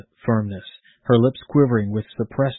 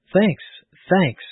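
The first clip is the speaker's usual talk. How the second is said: high, relieved thanks; happy exclamation; 7 semitones higher than usual. A narrator's reading. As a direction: exclaim it twice in grateful relief, pitched up. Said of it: "exclaimed the now happy parent".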